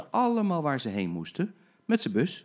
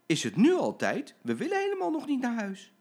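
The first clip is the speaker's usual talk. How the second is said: much higher whining plea; reluctant protest; 12 semitones higher, 3 dB louder than usual. Acted. Passengers pleading with the driver, whiny. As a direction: beg to stay longer. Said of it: "schrokken ze allemaal".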